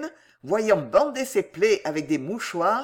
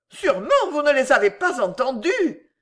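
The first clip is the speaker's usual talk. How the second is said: high, coy protest; flustered feminine modesty; bashful; 7 semitones higher, 5 dB louder than usual. A narrator's reading. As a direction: say it with modest embarrassment, pitched way up. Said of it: "dit-elle avec pudeur".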